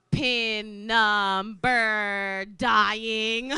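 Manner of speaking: mock despair. Despair typing pin.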